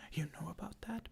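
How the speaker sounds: a touch of whispered surprise; mildly shocked. Acted. Simba learning Scar knows, mild shock. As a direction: ask it lightly taken aback. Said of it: "Simba shocked".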